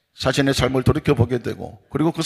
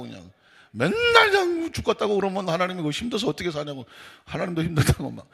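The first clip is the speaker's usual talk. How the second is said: ordinary talk, nothing marked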